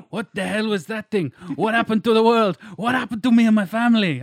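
loud, high frantic questions; panicked questions. Acted. Voicing Max's panicked questions.

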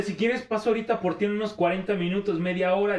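a hint of a teasing teacher offering a ride; flirty teacher. Teacher's offer voiced higher.

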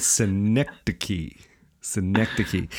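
synecdoche said si-NEK-tuh-kee; agreed pronunciation. Shown as a demonstration. Host settling on the word's pronunciation, four syllables ending "kee". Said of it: "we're gonna go with".

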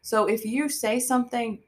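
calm, explanatory counselor tone. Real, not acted. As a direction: explain it gently like a therapist.

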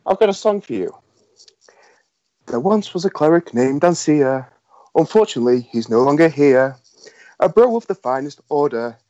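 measured spoken verse with pauses; bard's ballad recital. Acted. Bard performs a song for the kobolds, recited verse. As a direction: recite it as a rhyming tale.

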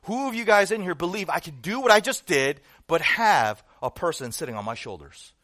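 loud showman's challenge; calling to crowd. Retold or imitated. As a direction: project the question to a whole crowd. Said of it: "he said again".

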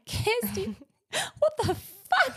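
very high, slow, laughing mock yell of a blaming dad; mock angry dad. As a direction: ham up dad blaming the kids through laughter. Dad yelling after fall, mocked.

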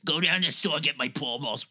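mock-bossy call for cigarettes; mock Doris demanding. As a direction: bark it like a bossy old director. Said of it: "pretend to be Doris".

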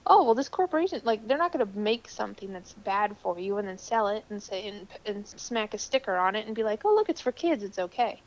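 lightly voiced gullible consumer; naive gullible voice. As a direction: play a trusting, naive buyer. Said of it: "with our naivete of".

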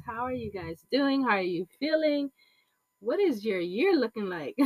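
talking with a blocked nose; stuffy nose. Real, not acted. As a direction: speak through a stuffed-up nose. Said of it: "Excuse me if I sound a little stuffy".

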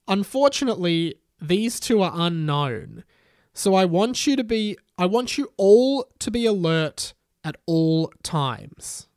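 declamatory, portentous announcement; Harry Potter's warning. A narrator's reading. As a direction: urge the students to stay alert. Voices Harry Potter warning students.

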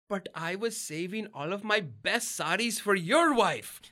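put-on high, slow wail in an Indian accent; hammed-up tearful lament, thick Indian accent; mom's Indian accent. Mother lamenting to her gay daughter, tearful Indian accent. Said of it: "her Indian accent".

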